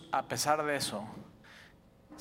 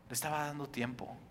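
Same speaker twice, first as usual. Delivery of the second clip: hushed repeat; 2 semitones lower, 10 dB quieter than usual. Shown as a demonstration.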